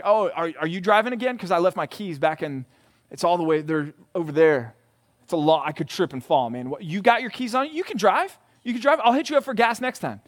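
lightly voiced whiny friend making excuses; a hint of a lazy friend angling for a ride; mooching friend.

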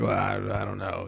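low mumbled shrug of a shy hick; lightly voiced redneck. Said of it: "who is very redneck, hickish".

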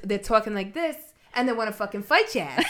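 mock tough New York accent; exaggerated New York vowels, spoiling for a fight. Shown as a demonstration. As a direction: put on a pugnacious New Yorker. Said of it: "or New York, where they're".

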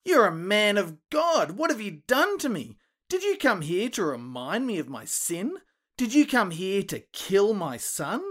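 loud, high, accusing shout; angry yell. Acted. Grieving mother yelling at Elijah, furious shout. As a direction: hurl it at him in grief. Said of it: "she yells".

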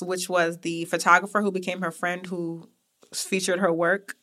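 usual speaking voice

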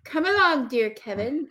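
lightly voiced nursery minder; leading a toddler. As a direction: coax him along like a small child. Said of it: "like, a small toddler".

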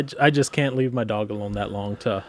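ordinary talk

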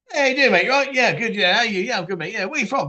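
lightly acted chirpy chat between strangers; quick, casual imitation of two mates meeting; mock small talk. Stranger greeting a new mate, lightly acted small talk.

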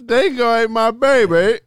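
high, loud, badly faked Australian; terrible Australian accent. Friend topping the dingo line, terrible Australian accent. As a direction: yelp it in a mock Australian accent. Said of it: "That's a terrible accent".

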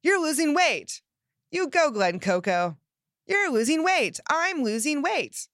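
high, loud cheering hype man; loud cheering from your inner hype man. Acted. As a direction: pump yourself up like a hype man. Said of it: "that's your hype man".

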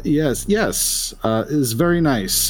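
halting, lightly voiced Polish accent; hesitant Polish-accented speaker; thick Polish accent. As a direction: stumble through it with a Polish accent. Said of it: "maybe Polish accent".

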